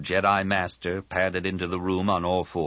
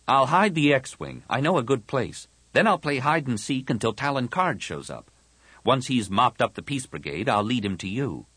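put-on slightly boyish, higher-pitched voice; confident young Anakin; 5 semitones higher than usual. Anakin explains his escape to Tahiri, mildly confident. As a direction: reassure with a ready plan.

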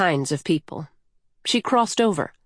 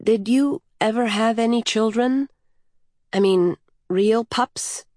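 timid; 4 semitones higher than usual. Acted. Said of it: "the child said timidly".

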